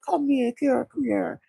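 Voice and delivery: high-pitched coaxing; comforting. Retold or imitated. Retold comforting of sad man.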